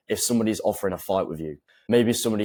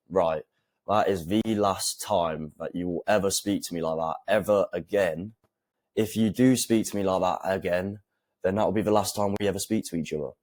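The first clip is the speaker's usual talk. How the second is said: calm sinister. Shown as a demonstration. Coach showing a firm boundary to girlfriend, calm and sinister. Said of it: "one comes across as more sinister".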